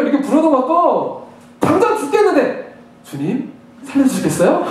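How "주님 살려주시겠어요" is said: understated, over-courteous plea; mock polite prayer. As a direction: ask for rescue as if requesting a small favour. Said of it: "이러면서 하지 않아요".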